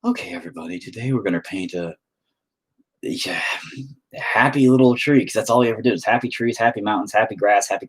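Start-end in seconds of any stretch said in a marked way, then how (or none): 0.0-5.2 imitating Bob Ross. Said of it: "he was like".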